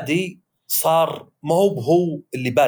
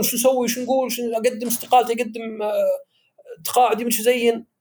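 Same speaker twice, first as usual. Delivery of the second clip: anxious employees; 7 semitones higher than usual. Retold or imitated. Employees panicking over privatisation.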